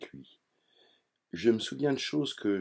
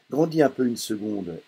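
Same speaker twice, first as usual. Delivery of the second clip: louder, higher father yelling; father yells at son, louder; 4 semitones higher, 6 dB louder than usual. Acted. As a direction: snap at him to grow up, raised. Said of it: "il me hurle".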